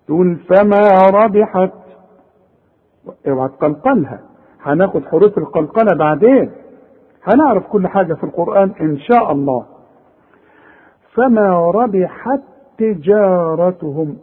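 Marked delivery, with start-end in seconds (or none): 0.4-1.7 slow recitation stopping on ربحت with a puff of air on ت; breathy final ت. Shown as a demonstration. Teacher shows a pause on ربحت, ت released in a slight whisper of air. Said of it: "علشان تبان إنك وقفت على تاء". 11.1-14.2 slow tajweed reading, ربحت running into تجارتهم on one ت; joined recitation. Shown as a demonstration. Teacher shows the words joined, in slow Quran recitation. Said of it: "إذا هقولها عند الوصل تاء واحدة".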